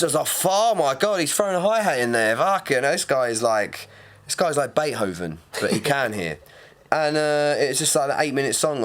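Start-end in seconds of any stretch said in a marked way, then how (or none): 0.5-6.4 much higher, mock-awed gush at the Scottish-free hi-hat drop; mock amazement. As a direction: gush sarcastically like he's hearing genius. Mocking the DJ's hi-hat.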